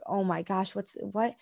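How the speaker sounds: soft, stunned, barely voiced disbelief; hushed dismay. Recalling her reaction to the scale, hushed dismay. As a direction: let it drop away to almost nothing, stunned. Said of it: "I was probably devastated for".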